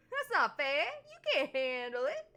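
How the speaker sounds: hammed-up tough-guy jab with a laugh; laughing taunt. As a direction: push the tease until you crack up. Retake, louder, laughing.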